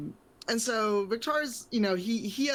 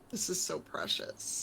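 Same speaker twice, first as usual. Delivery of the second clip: soft, hushed inner aside; suppressed delight; 6 dB quieter than usual. Acted. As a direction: murmur it, holding back a grin. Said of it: "he's like".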